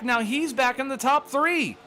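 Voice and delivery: breathless fast race calling; calling it while gasping for air; out of breath. Real, not acted. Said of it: "I'm out of breath right now just calling".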